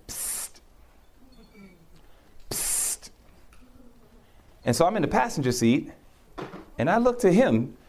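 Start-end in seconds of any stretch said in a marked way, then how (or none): 0.1-3.1 unvoiced hiss to catch attention; imitated psst. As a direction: hiss softly at someone passing by. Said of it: "I hear".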